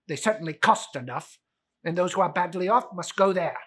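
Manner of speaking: loud miserly retort; a touch of cold anger; irritated Scrooge. Acted. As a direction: brush the collector off.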